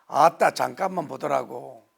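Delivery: loud Jeolla dialect with an "아따" burst; Jeolla accent. Retold or imitated. Pastor playing a Jeolla local for laughs, loud Jeolla accent. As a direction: belt it out like a Jeolla grandpa. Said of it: "전라도는".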